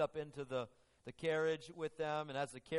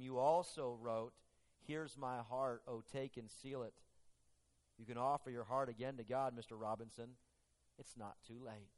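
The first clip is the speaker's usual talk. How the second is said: gentle reassurance. Retold or imitated. Lady gently comforting Robinson, softening to the end. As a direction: gently urge him back.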